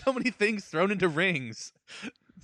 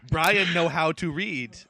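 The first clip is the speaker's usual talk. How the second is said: slow, drawn-out, louder dimwit voice; dumb-guy act; 5 dB louder, slower than usual. Pretend. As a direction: play it slow and dim-witted. Leaning on the dumb thing, mock stupid.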